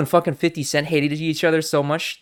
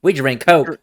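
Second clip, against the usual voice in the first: loud laughing hick brag; redneck voice; 3 semitones higher, 4 dB louder than usual. Acted. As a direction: cackle through a loud southern brag.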